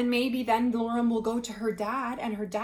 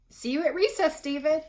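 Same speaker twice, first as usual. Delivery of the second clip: bright call; 7 semitones higher, 6 dB louder than usual. Acted. Amanda calls out to David.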